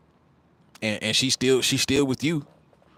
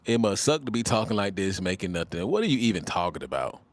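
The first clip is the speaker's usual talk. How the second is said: mock commenter; 2 semitones lower than usual. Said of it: "I don't know what he's talking about".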